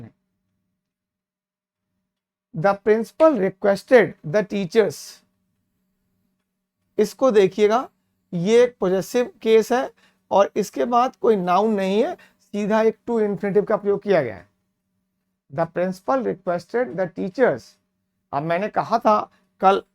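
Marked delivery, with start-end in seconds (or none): 2.6-5.0 slow dictation reading. Shown as a demonstration. Teacher reads example sentence slowly. 15.5-17.6 slow dictation reading. Shown as a demonstration. Teacher rereads same sentence slowly.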